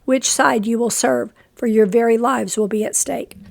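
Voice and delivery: short of breath, reading on; struggling for breath between phrases. Real, not acted. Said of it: "I'm very short of breath".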